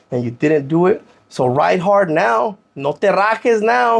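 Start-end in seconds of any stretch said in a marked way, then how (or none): 1.3-4.0 slow and deliberate; telling his younger self to hold firm; slow firm advice. Real, not acted. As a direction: lay it down word by word.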